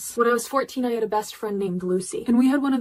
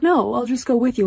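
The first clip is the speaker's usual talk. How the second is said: insisting; 4 semitones higher, 4 dB louder than usual. Retold or imitated. Insisting to friend.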